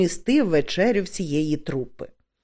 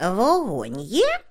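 slow, demanding question; 3 semitones higher, slower than usual. A narrator's reading. Old witch demanding a light from the actors. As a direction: ask for a light as if owed it. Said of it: "вимогливо спитала вона".

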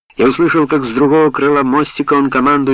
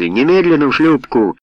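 higher, forceful order; thundering command; 6 semitones higher, 4 dB louder than usual. A narrator's reading. Helsey orders men into the boat, thundering. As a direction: order them off at once. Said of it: "вновь загремел Хелси".

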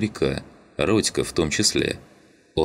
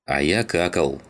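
ordinary delivery, nothing marked

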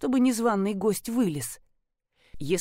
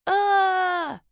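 high, louder cry for help; cry from nearby; 10 semitones higher, 4 dB louder than usual. A narrator's reading. Trapped woman cries out from the nearby pit. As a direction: wail from below. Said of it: "раздалось почти рядом".

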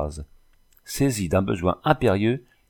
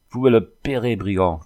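moderately raised, threatening cry; angry shouting; 4 dB louder than usual. Acted. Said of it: "criait le dragon en montrant son poing". (cri de menace)

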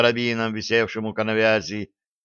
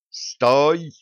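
higher, urgent cry to halt; desperate narrated shout; desperate yell; 5 semitones higher, 4 dB louder than usual. A narrator's reading. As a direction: shout to stop someone, voice pitched up. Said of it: "отчаянно заорал я".

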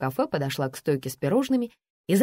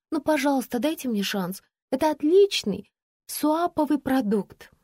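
put-on a high, pleading whine from a young shop girl; whining plea; 8 semitones higher than usual. Girl whining to the café owner for a chance. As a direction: beg the boss like a whining girl. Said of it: "заныла девушка".

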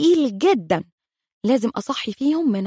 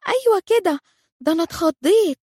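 relieved; 6 semitones higher than usual. Retold or imitated. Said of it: "روكا تزفر في طمأنينة".

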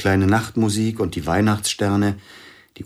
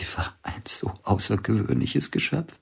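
whisper; 3 semitones higher, 5 dB quieter than usual. Acted. Intimate whispered confession scene.

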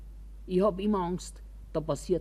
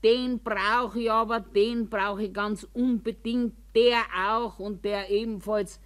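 imitated bawling; 3 semitones higher than usual. Roommate fighting for every binder, imitated mild bawling. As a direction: mimic her insistent fuss. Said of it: "Da hat die eine Plärrerei gemacht".

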